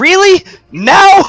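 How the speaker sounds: shrill, very high-pitched, loud yell. Narrating a game scene, a character struck by a flying boomerang, yelling. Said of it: "and she just yells".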